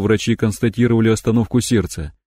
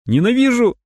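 screaming; 14 semitones higher than usual. Acted. Screaming at the cyborg.

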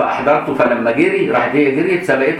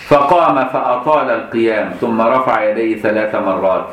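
slow, measured classical reading; slow recitation. Acted. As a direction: read the hadith line slowly and solemnly.

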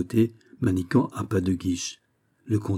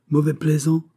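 higher, amused mock reproach; said smiling; 7 semitones higher, 3 dB louder than usual. A narrator's reading. The count chides the teasing Manicamp, smiling. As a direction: scold playfully through a smile. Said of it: "dit en souriant le comte".

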